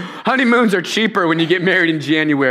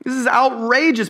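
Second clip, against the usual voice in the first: incredulous squeal; 7 semitones higher than usual. Retold or imitated. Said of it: "but, like".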